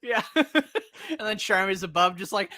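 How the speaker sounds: ordinary delivery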